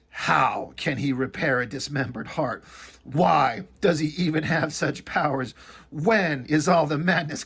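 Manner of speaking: measured read-aloud narration with a mocking edge; comic narration. Reviewer reading a comic's gory caption aloud, mock narration. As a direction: read it out like overwrought prose.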